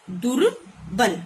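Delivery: drawn-out, very slow दुर्बल; slow model word. Shown as a demonstration. Teacher modelling a word for pupils, very slow. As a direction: spell out दुर्बल slowly for the class. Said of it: "फिर दुर plus बल".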